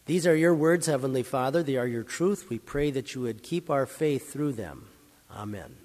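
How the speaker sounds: softening, reverent prayer, fading to a hushed amen. Acted. Closing prayer after the reading.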